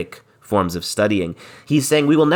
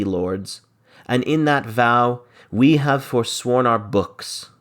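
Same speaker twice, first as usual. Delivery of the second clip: dramatic verse reading; 3 semitones higher, 3 dB louder than usual. Acted. Teacher performing Biron's plea to the lords, dramatic reading. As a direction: argue it like Biron pleading with his lords.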